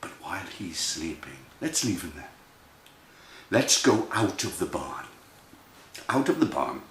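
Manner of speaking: low, soft storyteller voice; hushed narration. A narrator's reading. Storyteller leaves the sleeping mouse, low hush. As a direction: speak softly so as not to wake him.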